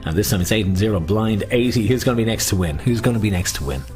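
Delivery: sing-song bingo call; bingo caller. Acted. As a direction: call the numbers out. Calling bingo numbers.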